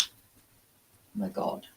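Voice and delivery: slow, soft whispered gasp; breathless whisper. Real, not acted. Host watching her cat lean on the board, whispered. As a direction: breathe it out in disbelief.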